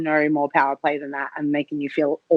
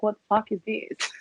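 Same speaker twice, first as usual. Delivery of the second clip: shocked; 3 semitones higher, 6 dB quieter than usual. Retold or imitated. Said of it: "Like, I was in shock".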